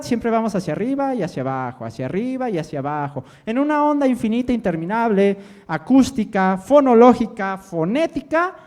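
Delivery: central Mexican accent with pitch swinging up and down; sing-song central Mexican intonation; singsong central Mexican accent. Shown as a demonstration. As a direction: roll through the rise and fall of a central Mexican lilt. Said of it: "tenemos un sube y baja en nuestro acento".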